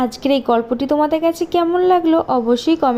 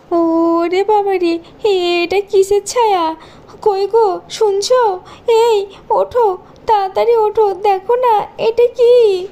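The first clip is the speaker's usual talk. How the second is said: scared whimpering that builds to a cry; frightened; 2 semitones higher than usual. Acted. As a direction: wake your husband in terror. Stepmother terrified by shadow.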